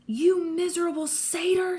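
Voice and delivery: high, furious villain snarl. A narrator's reading. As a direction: spit out the insult angrily. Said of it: "she snarled".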